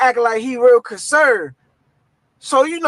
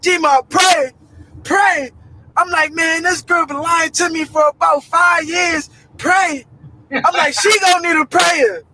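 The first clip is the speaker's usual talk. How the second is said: frantic shouting; 5 semitones higher than usual. Retold or imitated. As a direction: yell it in disbelief. Frantic reaction to the news.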